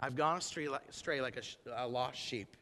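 very soft, low penitent murmur; hushed confession. Acted. Preacher quoting a lost sheep's confession, hushed and low. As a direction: admit it quietly, humbly.

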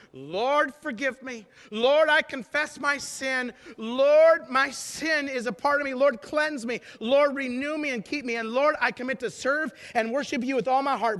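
insistent plea, each "Lord" driven hard; fervent prayer. Acted. Sinner confessing to the Lord, fervent insistent prayer. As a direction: pray it out urgently, in full preaching voice. Urgent run of prayer to God.

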